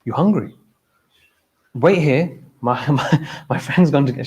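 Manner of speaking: lightly voiced innocent offer. Man offers food to a Bedouin woman, mildly innocent. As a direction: guileless question and offer, retold. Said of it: "in innocence".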